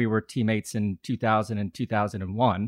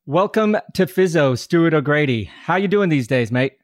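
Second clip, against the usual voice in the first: put-on a mediocre Australian accent, higher and louder; put-on Aussie accent; 4 semitones higher, 4 dB louder than usual. Host greets his Australian former teammate in a so-so Australian accent. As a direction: greet him in your best average Aussie accent. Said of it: "You put on your best Aussie accent".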